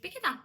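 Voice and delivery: "Pick it up" run together as one word; linked words. Shown as a demonstration. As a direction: glide straight through "Pick it up", no gaps. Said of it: "звучить як одне". (злито, як одне слово)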